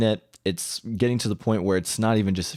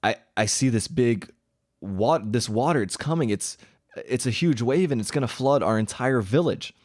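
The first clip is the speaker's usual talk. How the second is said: mildly panicked, higher-pitched stammering start; retold panic; 4 semitones higher than usual. Patient under hypnosis sees a huge wave coming, retold with mild panic. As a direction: act out her rising alarm, understated. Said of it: "and she starts panicking".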